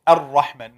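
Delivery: Ar-Rahman, single tap, no trill on the ra; ra without repetition. Shown as a demonstration. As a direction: say Ar-Rahman with one clean ra. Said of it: "no repetition".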